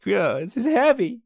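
slow, high film-hero voice; drawn-out, hammed-up awe, rising loud and high; Marty McFly. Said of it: "I love Marty McFly".

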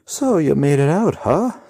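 bright, high cheery greeting; cheerily. A narrator's reading. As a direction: greet the hero like an old friend. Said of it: "the rider says cheerily".

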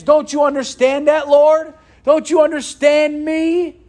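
a hint of a sinner pleading with God, rising; mock whining excuse. Preacher voicing Adam blaming God, mock whine. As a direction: whine it up at God, pushing the blame away.

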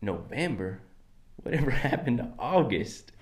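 loose-mouthed accent with too much twang; relaxed-mouth accent. Shown as a demonstration. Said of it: "Just gotta relax the mouth".

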